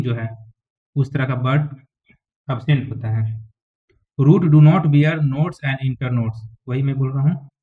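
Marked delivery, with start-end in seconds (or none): 4.2-6.4 slow dictation. Shown as a demonstration. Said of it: "dictating notes to students".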